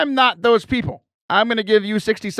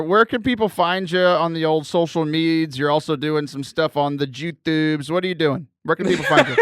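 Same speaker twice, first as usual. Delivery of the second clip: put-on Connecticut accent; 3 semitones lower than usual. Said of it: "that was my Connecticut accent".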